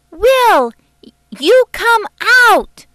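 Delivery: loud, high commanding call; a loud commanding summons from a young girl. A narrator's reading. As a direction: order him out, loud and high. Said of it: "Dusty said in a commanding voice".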